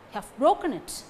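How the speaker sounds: "broken" stressed, weak "Have" and "it". Shown as a demonstration. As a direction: lean hard on "broken". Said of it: "Broken takes stress".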